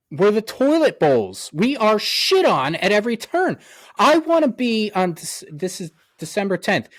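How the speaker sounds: worked-up complaint, leaning into each phrase; aggravated rant. Real, not acted. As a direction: vent like a fed-up fan. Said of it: "I'm done with the rant".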